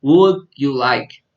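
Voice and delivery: Would you like, slow and loud with WOULD stressed; teacher drilling "Would you like" slowly; slow model phrase. Shown as a demonstration. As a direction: stretch out "Would you like" for the class. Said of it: "to use the expression".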